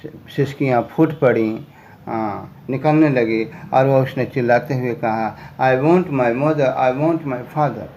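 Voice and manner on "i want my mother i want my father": very slow, careful read-aloud; deliberate storybook reading; slow story reading. A narrator's reading. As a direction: read each word out slowly for learners.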